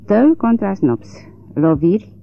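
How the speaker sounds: put-on an old judge reads the case name off paper; reading from a sheet. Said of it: "cum ar fi citit de pe o foaie de hârtie". (citit rar, ca de pe o foaie)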